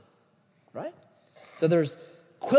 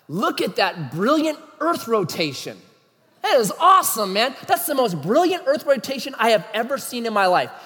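excited, hammed-up gush over the earth turning; mock pedantic awe; 4 semitones higher, 4 dB louder than usual. Preacher mocking pedants, gushing over earth rotation. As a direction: overdo the wonder like a know-it-all.

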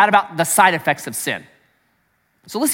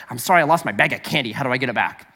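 selfish sorry; 6 semitones lower, faster than usual. Shown as a demonstration. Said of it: "Worldly sorrow is".

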